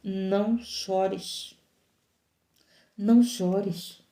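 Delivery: slow, soft and gentle, as Jesus consoling; a slow, quiet "Não chores" to a grieving widow; tender comfort. Acted. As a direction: linger on each word, softly. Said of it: "e disse".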